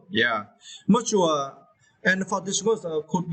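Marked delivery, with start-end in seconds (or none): 0.1-1.5 mature said slowly, leaning on tua; slow model of mature for learners; slow stressed demo. Shown as a demonstration. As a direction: draw out mature, hit tua. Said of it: "stress the second syllable".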